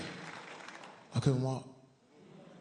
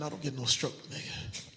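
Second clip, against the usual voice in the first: whispered denial; 5 semitones lower, 5 dB quieter than usual. Retold or imitated.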